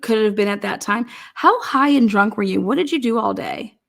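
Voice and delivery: ordinary delivery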